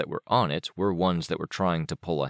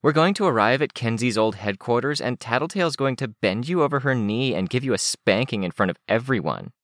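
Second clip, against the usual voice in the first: lightly voiced, higher girlish tease; teasing Candy; 6 semitones higher than usual. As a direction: tease a friend with mild relish.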